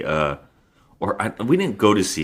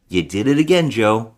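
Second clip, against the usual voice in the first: excited exclamation; 3 semitones higher, 5 dB louder than usual. Retold or imitated. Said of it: "I was like".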